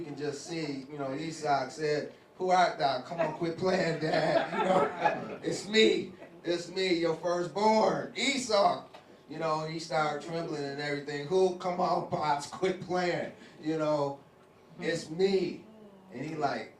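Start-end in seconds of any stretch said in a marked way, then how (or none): 2.4-8.8 high, loud laughing protest; laughing disbelief. Retold or imitated. Esau thinks father is joking. 11.3-15.6 high, loud laughing protest; laughing disbelief. Retold or imitated. Esau insists, father joking.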